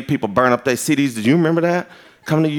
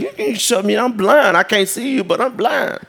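with attitude; 5 semitones higher than usual. Retold or imitated. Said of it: "like an attitude".

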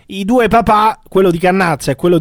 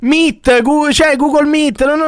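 higher, incredulous rant; exasperated rant; 7 semitones higher than usual. Real, not acted. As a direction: pitch it up in disbelief. (sfogo incredulo, voce più alta)

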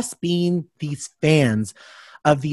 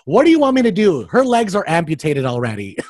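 exasperated snap; 3 semitones higher, 4 dB louder than usual. Retold or imitated. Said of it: "She was like".

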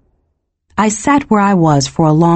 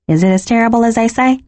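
quick, higher question with a touch of dread; hushed dread; 5 semitones higher, faster than usual. A narrator's reading. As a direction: ask anxiously, a little hurried. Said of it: "She had dropped her voice, her tone full of dread".

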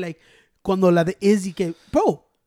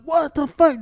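retold disbelief; 6 semitones higher, 4 dB louder, slower than usual. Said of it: "Now I'm like".

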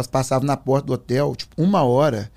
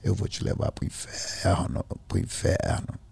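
low, slow, hushed menace; sinister drawn-out rasping whisper; changed demonic voice; 7 semitones lower, 6 dB quieter, slower than usual. Retold or imitated. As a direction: imitate a possessed friend, slow and breathy. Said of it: "mudou a voz, falou assim".

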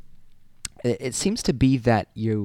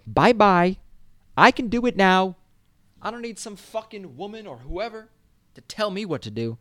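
high-pitched cocky send-off; mock defiance; 9 semitones higher than usual. Student brushing off a parent, mock defiant.

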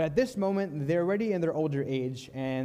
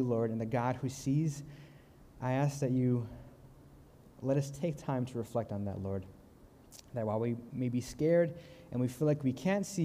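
earnest, measured prayer voice; 2 semitones lower than usual. Acted. Speaker prays for the congregation before the lesson, earnest and measured. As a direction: lead the group in prayer.

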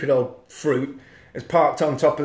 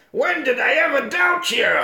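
high, innocent mock question; 11 semitones higher than usual. Police chief to David, mock innocent high voice. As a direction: ask it all innocent. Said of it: "he says".

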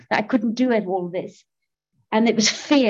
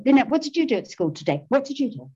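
high, quick mock questioning; hurried, pitched-up parental small talk; old pitched voice; 5 semitones higher, faster than usual. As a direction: imitate your awkward high voice asking a daughter. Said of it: "In that voice".

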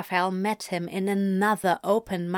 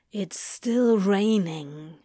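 lightly voiced Crowley; slower than usual. Crowley's voice in the story.

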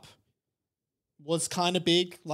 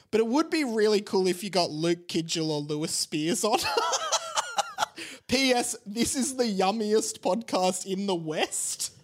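laughing; 4 semitones higher than usual. Real, not acted.

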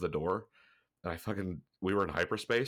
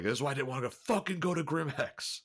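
irritated complaint; 8 semitones higher than usual. Retold or imitated. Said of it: "he's been pissed off at me".

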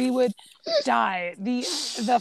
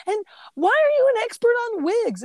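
retold scolding question; 11 semitones higher, 4 dB louder than usual. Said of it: "he's like".

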